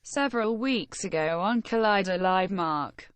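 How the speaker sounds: text-to-speech robot reading; flat synthetic voice. Acted. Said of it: "the robot voice".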